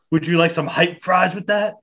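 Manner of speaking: high, cheery drive-thru greeting; chirpy fast food cashier voice; drive thru speaker. Pretend.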